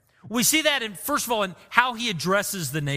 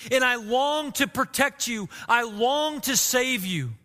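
a touch of mourning, slowing on the last line; mourning plea; 2 semitones higher than usual. Retold or imitated. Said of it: "Jesus is just mourning in this moment".

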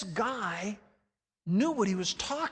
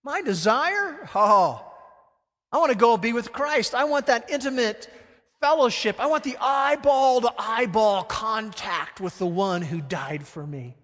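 passionate longing; 3 semitones higher, 5 dB louder than usual. Acted. Paul's longing voiced with passion.

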